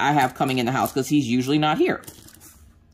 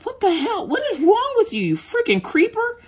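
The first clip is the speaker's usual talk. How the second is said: much higher, shrieking disbelief; startled outburst. Retold or imitated. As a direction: jump out of your skin and call him a creeper. Startled by husband staring at her.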